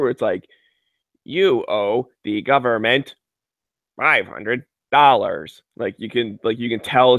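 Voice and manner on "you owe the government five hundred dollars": slow, choppy automated voice; robot voice. Pretend. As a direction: read it like a glitchy robocall. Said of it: "if a robot tells me that, especially if it's edited weird".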